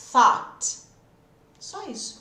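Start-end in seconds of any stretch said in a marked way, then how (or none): 0.1-0.8 thought with blown TH, open O, T; thought, TH and long O. Shown as a demonstration. Teacher models thought for students learning TH.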